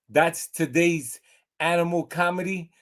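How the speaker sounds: speaking through a laugh. Real, not acted. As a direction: chuckle through the sign-off. Laughing at his own joke.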